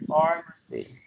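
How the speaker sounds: pharmacy with the stress up front: PHAR-ma-cy; stress on the first syllable. Shown as a demonstration. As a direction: hit "phar" in pharmacy and keep the rest light. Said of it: "The first syllable is stress".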